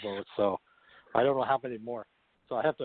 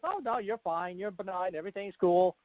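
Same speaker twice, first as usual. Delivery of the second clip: breezy all-clear, pitched up; retold reassurance; 5 semitones higher than usual. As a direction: imitate someone lightly brushing a worry away. Retelling the caller's reassuring news.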